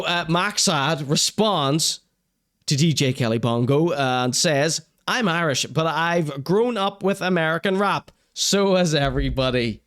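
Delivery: usual speaking voice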